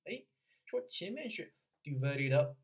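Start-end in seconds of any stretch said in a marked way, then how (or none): 1.8-2.6 "divided up" run together as one word; linked sounds. Shown as a demonstration. Coach pointing at the front part, linked sounds. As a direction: join the consonants of "divided" onto "up". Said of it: "这里是辅音加元音".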